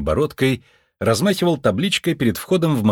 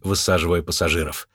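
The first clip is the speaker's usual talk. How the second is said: ordinary delivery, nothing marked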